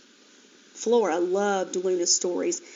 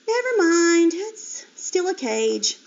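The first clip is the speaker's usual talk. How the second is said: high piglet voice, slowing down; a little let down, then slow; lightly voiced piglet; 8 semitones higher, 4 dB louder, slower than usual. A narrator's reading. Flora disappointed by small pen.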